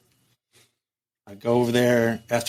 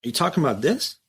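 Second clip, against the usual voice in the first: mock innocent; 6 semitones higher than usual. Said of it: "I said".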